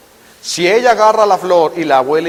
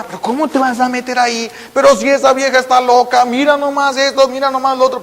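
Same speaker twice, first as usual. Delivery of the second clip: higher scolding relatives; disapproving family; 7 semitones higher than usual. Retold or imitated. Family scolding the boy in love with a madwoman, exasperated. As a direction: nag him, higher and exasperated. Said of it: "Toda la familia va a estar en contra".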